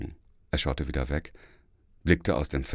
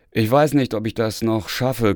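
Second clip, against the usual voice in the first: coy and teasing, raised pitch and louder; flirtatious; 4 semitones higher, 3 dB louder than usual. Retold or imitated. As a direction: play hard to get, lightly. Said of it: "kokettierte ich".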